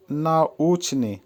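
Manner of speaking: নাউচনি split as না-উচ-নি; teacher modelling নাউচনি clearly; careful pronunciation demo. Shown as a demonstration. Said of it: "উচ্চারণ হবে". (নাউচনি-র স্পষ্ট উচ্চারণ)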